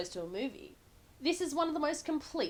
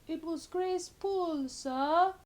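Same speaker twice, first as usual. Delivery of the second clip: flat Zela Clark imitation; 7 semitones higher, slower than usual. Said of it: "sum up the whole of Zela Clark's performance with just one line".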